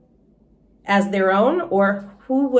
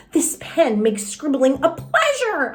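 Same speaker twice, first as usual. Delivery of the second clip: pleased; 4 semitones higher than usual. Acted. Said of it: "I said".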